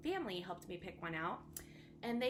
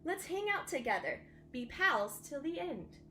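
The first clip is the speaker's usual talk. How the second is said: higher, quick friendly chirp; peeping mouse; 8 semitones higher, 4 dB louder than usual. Acted. Mouse offering friendship to the lion, higher quick peep. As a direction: squeak it kindly and fast. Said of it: "Mouse peeped".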